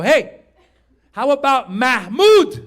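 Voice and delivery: proud suggestion. Retold or imitated. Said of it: "I go".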